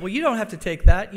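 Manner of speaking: rally her like an outraged bystander; indignant urging. Retold or imitated. Passenger urges mother to complain.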